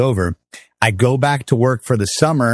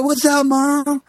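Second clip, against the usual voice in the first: much higher, slow, drawn-out cocky greeting; cocky frat guy; slower than usual. Retold or imitated. Cocky frat son greeting his mom at the fraternity house, mock-cool and high. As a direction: play it like a shirtless frat bro brushing off Mom. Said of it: "super cocky frat guy".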